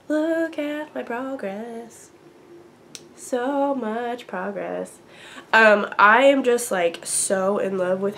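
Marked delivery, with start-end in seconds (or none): 0.1-5.0 proud show-off. Real, not acted. Showing off knitting.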